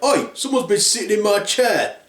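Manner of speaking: Daddy Bear. Acted. Father bear finding his chair used, indignant. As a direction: protest like a put-out dad. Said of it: "Daddy Bear's like".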